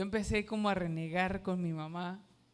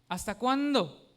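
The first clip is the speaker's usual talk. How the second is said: louder reproachful "¿Hasta cuándo?"; mock a mother's rebuke; mother's scolding; 3 semitones higher, 5 dB louder, slower than usual. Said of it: "me dio una regañada".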